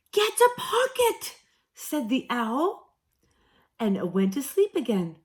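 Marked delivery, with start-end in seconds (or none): 0.1-1.4 put-on high, loud, scratchy old owl. A narrator's reading. Owl woken at midday, loud and scratchy. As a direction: croak it out like a deaf old owl.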